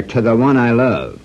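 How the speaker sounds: reading the inscription. Shown as a demonstration. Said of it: "and then write on there".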